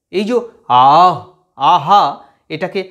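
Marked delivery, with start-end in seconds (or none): 0.9-2.0 আহ pushed out loud as a breath from deep in the throat; breathy throat h. Shown as a demonstration. Teacher shows students the throaty breath of হ. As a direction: let the air rush out from the throat on আহ. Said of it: "ওটা একদম গলার দেখো ভিতর থেকে".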